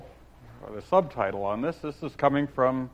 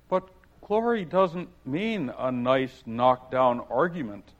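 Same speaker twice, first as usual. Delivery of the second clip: objecting. Acted. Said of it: "Alice objected".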